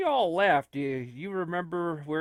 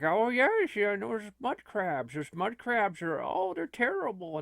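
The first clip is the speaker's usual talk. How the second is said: a light, higher repeated NPC line; Oblivion NPC; 4 semitones higher than usual. Retold or imitated. Mimicking a stock Oblivion villager's line to friends, lightly voiced. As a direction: parrot a canned game line, lightly voiced. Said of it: "That's like Oblivion".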